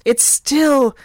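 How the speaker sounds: slow, hushed, mock-dramatic delivery; mock-haunted. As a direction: trail into a slow, haunted half-whisper. Mock-haunted close to her segment.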